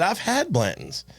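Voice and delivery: a touch of naive pride; naive boast. Retold or imitated. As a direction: brag innocently to fit in. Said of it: "I said".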